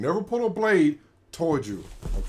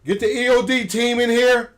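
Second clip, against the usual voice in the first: raised-voice mock alarm; mock urgent call; 6 semitones higher, 4 dB louder than usual. Host jokingly summons the bomb squad over a package, mock urgent call. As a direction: call out loudly for backup, higher pitched.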